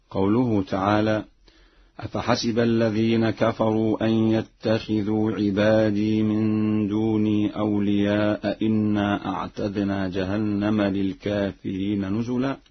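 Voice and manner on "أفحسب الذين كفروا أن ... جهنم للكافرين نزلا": tajweed recitation. Acted. تلاوة مجودة للآية. (تلاوة مجودة مرتلة)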